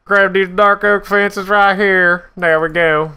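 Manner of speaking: high, bright announcing; excited. Acted. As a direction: ham it up excitedly. Excited sing-song building.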